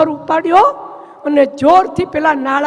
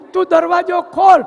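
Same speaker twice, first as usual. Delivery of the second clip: loud, commanding wife's shout; shouting demand; 4 semitones higher, 5 dB louder than usual. Acted. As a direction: yell the order at him through the door. Wife threatens husband at door. (દરવાજો ખોલવા બૂમ પાડતી પત્ની)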